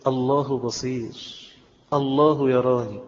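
slow, reflective murmured dhikr; contemplative. Shown as a demonstration. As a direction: dwell on each word, unhurried. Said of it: "وبعد شوية تأملها شوية".

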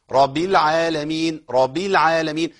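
رب said with a single light ba, no shadda; dropped doubled ba. Shown as a demonstration. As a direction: skip the doubling of the ba in رب. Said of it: "أسقطت باء". (خطأ: إسقاط شدة الباء في رب)

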